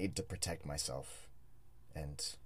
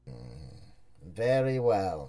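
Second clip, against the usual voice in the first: ominous hooded stranger; 2 semitones higher, 15 dB louder than usual. Acted. Xerxes gives his verdict.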